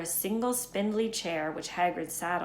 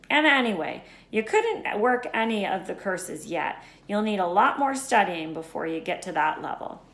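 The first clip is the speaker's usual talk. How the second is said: Hagrid voice; 2 semitones higher, 4 dB louder than usual. Acted.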